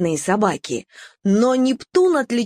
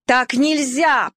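prim decision; 3 semitones higher, slower than usual. Acted. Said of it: "решила Нелли".

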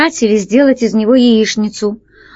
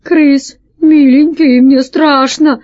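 high, loud scared whimpering; acted panicky appeal for comfort; frightened plea; 5 semitones higher, 5 dB louder, slower than usual. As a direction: plead fearfully, dragging the words. Frightened pirate pleads in the dark.

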